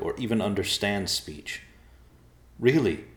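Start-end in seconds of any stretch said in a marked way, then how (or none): 2.6-3.0 higher, emphatic reassurance; earnest, pitched up and louder; reassuring. A narrator's reading. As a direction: insist that it is fine. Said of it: "Evercloud assured the bears".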